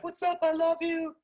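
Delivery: very high, squeaky dog voice; high-pitched mock dog voice; adoring dog. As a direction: squeal it like a devoted pet. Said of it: "your dog is still gonna be like".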